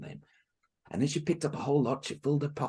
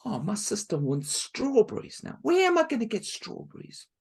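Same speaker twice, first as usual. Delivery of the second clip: put-on despairing girl; 8 semitones higher, 6 dB louder than usual. Marushka complains.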